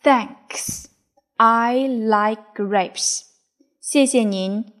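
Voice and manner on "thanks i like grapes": polite thanks. Acted. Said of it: "Mike非常客气地说".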